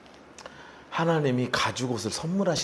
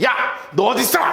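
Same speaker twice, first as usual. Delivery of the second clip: raised, high stern demand; mock scolding shout; 7 semitones higher, 3 dB louder than usual. Shown as a demonstration. Preacher showing how God did not call Adam, a scolding shout. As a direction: call out sharply as if telling someone off. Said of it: "호통을 치시기 위해서".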